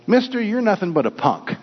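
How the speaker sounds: lightly voiced parrot, starting high and falling; high opening, falling taunt; talking parrot. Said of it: "the parrot said to the man".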